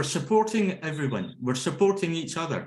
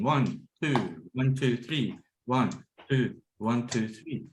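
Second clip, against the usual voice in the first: steady counted beat for clapping; counting the clap rhythm for the group; rhythmic counting; 2 semitones lower, slower than usual. Shown as a demonstration. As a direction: count one two three in even rhythm. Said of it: "it's a rhythmic motion".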